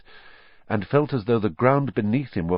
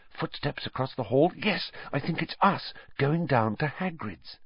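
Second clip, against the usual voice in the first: hushed; 5 semitones higher, 5 dB quieter than usual. A narrator's reading. Hiding in cupboard, hushed.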